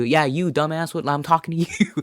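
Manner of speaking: lightly imitated crowd-work comic; Jeff Garcia. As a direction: pick on an audience member, in imitation. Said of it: "you've seen Jeff Garcia do crowd work".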